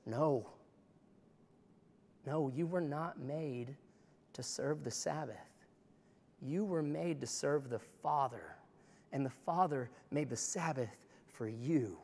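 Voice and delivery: gentle Jesus. Retold or imitated. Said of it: "he says".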